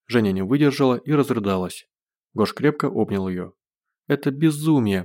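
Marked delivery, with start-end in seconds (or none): 4.1-5.0 a touch of a tearful moan, higher; moaning through tears. Acted. Zhenya in Gosh's arms moans, lightly tearful and higher. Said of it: "простонала Женя, глотая слёзы".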